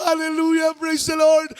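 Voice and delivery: mock-shout the mother's praise over and over; retold shouting. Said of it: "Siya po'y nagsisigaw ng".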